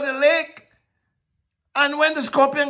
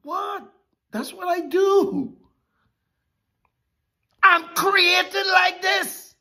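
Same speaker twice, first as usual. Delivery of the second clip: scorpion's voice; 9 semitones higher, slower than usual. Retold or imitated. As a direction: brush him off like the scorpion. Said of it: "The scorpion says".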